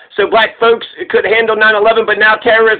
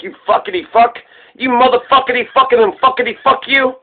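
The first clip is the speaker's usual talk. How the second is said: hostile tone. Shown as a demonstration. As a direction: spit the insults with a hostile edge. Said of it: "it's the tone".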